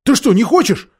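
high, incredulous question; boy's surprised challenge; exclaiming. A narrator's reading. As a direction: ask in disbelief, pitch lifted. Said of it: "воскликнул Корин".

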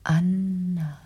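calling Anna through the door; calling her name. Retold or imitated. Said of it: "Er hat mich gerufen".

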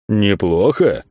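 НЕПЛОХО drawn out as a questioning echo; drawn-out, disbelieving НЕПЛОХО; incredulous echo. A narrator's reading. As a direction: throw НЕПЛОХО back in disbelief. Friend echoes it back, indignant.

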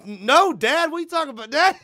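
whiny denial to dad; protesting kid. Retold or imitated.

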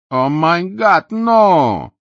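high, loud, drawn-out horrified cry; panicked cry. Acted. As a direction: gasp it out in shock. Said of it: "вырвалось у Ники по-английски". (испуганный вскрик)

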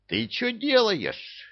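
very high, slow, strained shock. Acted. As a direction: gasp it out in disbelief. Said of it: "выпучил глаза бывалый". (с выпученными глазами, ошарашенно)

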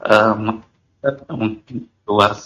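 caller's voice breaking up on a bad line; choppy dropouts, like a failing phone connection; corrupted glitchy audio. Real, not acted. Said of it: "suaranya putus-putus".

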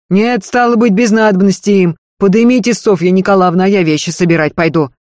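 earnest servant woman begging, high and loud; Marfa's pleading voice. Acted. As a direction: beg her mistress not to leave, pressing hard. Marfa urges Sofia upstairs.

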